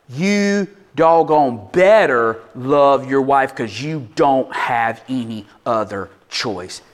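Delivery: slow, weighty command voice; emphatic command. Acted. Paul commanding the married men, slow and emphatic. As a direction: lay down the command slowly like Paul. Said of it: "Paul uses an emphatic command".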